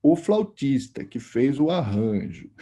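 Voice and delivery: a hint of a wise old musician speaking in metaphors; imitating Laércio's intonation. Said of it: "Ele falou assim, desse jeito, assim, com essa entonação".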